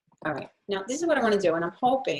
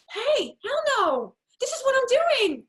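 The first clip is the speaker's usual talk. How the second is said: much higher and slow, a fired-up declaration; emphatic hell no; 7 dB louder, slower than usual. Shown as a demonstration. To herself, declaring her purpose with fired-up conviction. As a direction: shout it out with total conviction. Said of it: "When you get that why".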